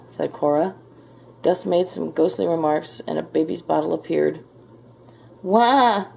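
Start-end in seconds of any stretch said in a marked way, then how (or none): 5.4-6.1 higher mock baby wail; baby ghost's yell. A narrator's reading. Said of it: "yelled baby ghost".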